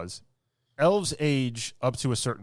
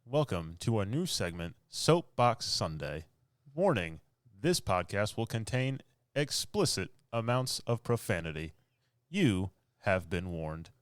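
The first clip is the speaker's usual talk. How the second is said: announcer voice; 4 dB quieter than usual. Acted. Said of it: "my announcer voice".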